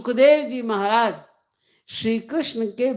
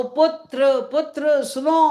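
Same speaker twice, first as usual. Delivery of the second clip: higher-pitched fatherly call; urgent, raised-pitch appeal; calling after son; 4 semitones higher, slower than usual. Acted. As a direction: call out to a son walking away.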